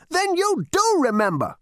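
put-on high old ghost, pleased; the ghost, satisfied and knowing. A narrator's reading. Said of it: "nodded the ghost in satisfaction".

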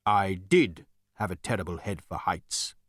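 a touch of regret; wistful. A narrator's reading. Voice remembering its body, gently wistful. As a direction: linger mildly on the past tense. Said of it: "it added wistfully".

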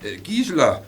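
stammering, embarrassed laugh; nervous laugh. Acted. Achim caught off guard by Gisela, stammering with a nervous laugh.

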